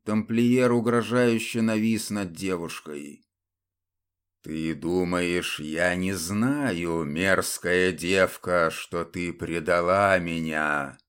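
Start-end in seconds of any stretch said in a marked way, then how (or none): 4.4-11.0 low, slow, grinding threat; menacing hiss through teeth. Acted. Templar looms over the girl, low and slow with menace. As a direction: drag each word out like a dead man's threat. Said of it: "процедил тамплиер".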